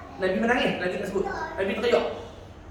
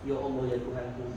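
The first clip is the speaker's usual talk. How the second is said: hushed awe; 9 semitones lower, 10 dB quieter than usual. Real, not acted. Awed exclamation in sermon.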